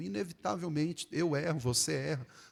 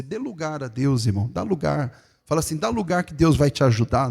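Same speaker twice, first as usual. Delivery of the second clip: congregation prompt; 7 dB louder than usual. Shown as a demonstration. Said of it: "diga pro irmão".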